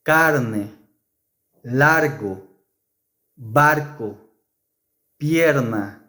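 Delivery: carne, largo, barco with a single tapped r; soft r. Shown as a demonstration. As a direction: tap each r once, lightly. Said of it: "the R is pronounced softly".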